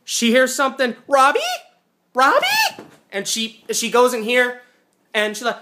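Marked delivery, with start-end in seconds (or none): 1.1-2.4 searching call. Retold or imitated. Heroine calls for Robbie.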